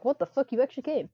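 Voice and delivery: high, loud mock outrage; imitating her. Player imitating the rival's reaction, hammed-up outrage. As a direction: ham up her shocked disbelief. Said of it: "She's like".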